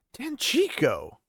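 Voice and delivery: breathless, stunned whisper; a hint of a stunned whisper. A narrator's reading. Lan whispering the city's name in disbelief.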